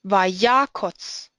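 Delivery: vayakotz stressed on "ya", unstressed "kotz" with o. Shown as a demonstration. Teacher reading an example, stress on the ya of vayakotz. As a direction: lean on "ya" in "vayakotz", short closed "kotz". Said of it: "The stress is on the first syllable".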